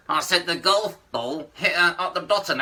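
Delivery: the same puppet line again through still lips; repeated ventriloquist line. Shown as a demonstration. Puppet repeats the line when the comic asks again. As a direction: repeat "golf ball hit her up the bottom" without moving lips. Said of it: "for a ventriloquist, that's difficult".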